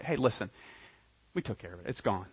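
quiet good news. Acted. Mortgage caller cancels debt quietly.

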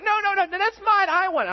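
put-on high, loud screech of a three-year-old; toddler shouting mine. Pastor imitating his toddler son yelling over a toy. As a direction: shriek it like a toddler grabbing a toy. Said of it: "he starts, you know".

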